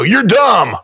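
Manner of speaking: hammed-up jeering yell from The Rock; The Rock heckling. The Rock bursting into your bedroom, mock-shouting insults. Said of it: "The Rock is gonna come into your bedroom".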